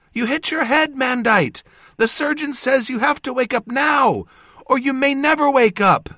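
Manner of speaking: high, loud, tearful female voice. A narrator's reading. Jas urging an injured man to wake up, tearful and high. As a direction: plead loudly in a high, upset voice. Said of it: "the voice said tearfully".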